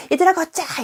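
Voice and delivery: high, loud urgent shout; shouted command. Shown as a demonstration. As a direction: bark it across the playground. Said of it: "이렇게 말하진 않아요". ("얘들아, 걷자!"를 높고 크게 외치기)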